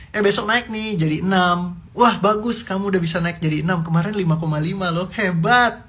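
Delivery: excited praise. Acted. Parent praising child's grade rise.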